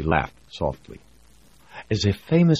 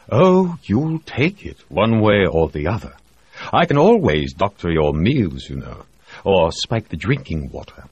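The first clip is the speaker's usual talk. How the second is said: menacing doctor; 5 semitones higher, 4 dB louder than usual. Acted. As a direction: threaten him pleasantly. Reed threatens.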